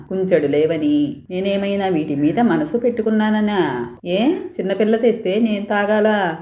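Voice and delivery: put-on a child demanding reasons, half hurt; questioning insistently. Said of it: "నిలదీయడం మొదలెట్టింది". (కొంచెం నిలదీస్తూ అడుగుతూ)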